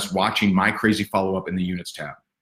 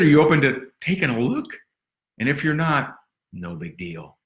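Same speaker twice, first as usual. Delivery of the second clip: easygoing invite; 4 semitones higher than usual. Retold or imitated. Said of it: "I said".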